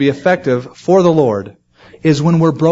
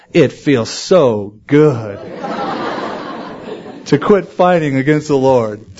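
laughing with relief; slower than usual. Retold or imitated. Convert retelling her relief, laughing.

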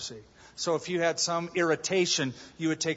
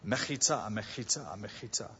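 fast tongue-twister; 6 semitones lower, 7 dB quieter than usual. Shown as a demonstration. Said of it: "Say that ten times".

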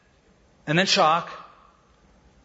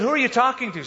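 puzzled question; 8 semitones higher, faster than usual. Retold or imitated. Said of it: "I said".

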